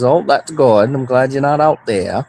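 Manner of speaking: retold dad's Mainer talk; Maine accent. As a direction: imitate a dad from Maine. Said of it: "That's my main accent".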